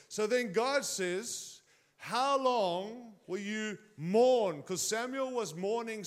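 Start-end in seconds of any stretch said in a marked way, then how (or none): 2.0-4.6 voice of God. Acted. God's voice in retold scripture.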